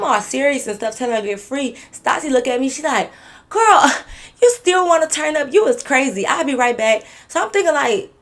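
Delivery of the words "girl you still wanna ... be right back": put-on high, laughing girlfriend voice, slowed; laughing disbelief. Friend laughing at her for wanting to party. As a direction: laugh out the words at a friend who's lost it.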